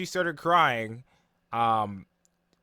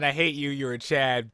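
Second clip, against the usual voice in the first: angry rant; 4 dB louder than usual. Retold or imitated. Retelling demon's envious rant.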